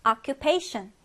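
occupation with main stress on -PA-; careful word stress. Shown as a demonstration. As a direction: read out occupation, keeping the stress on its third syllable. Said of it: "이 단어 강세 지켜서 한번 읽어볼게요". (occupation, 강세 지켜서 읽기)

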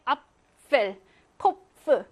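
앞펠, 코프 with p and f both heard; both pf sounded. Shown as a demonstration. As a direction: pop p into f in 앞펠. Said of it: "프, 프 다 발음하면 돼".

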